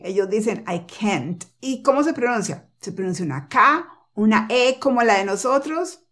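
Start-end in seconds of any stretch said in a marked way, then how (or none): 0.7-1.4 CAN'T as "kent", T released; soft "I can't" with a crisp final T; exploded final T. Shown as a demonstration. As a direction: pop the T ending CAN'T. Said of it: "ellos explotan la T".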